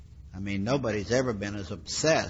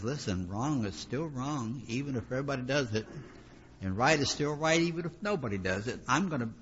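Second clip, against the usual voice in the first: a hint of a determined righteous man, pitch rising higher; resolute believer; 3 semitones higher than usual. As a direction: firmly declare you won't bend. Voicing a resolute righteous person.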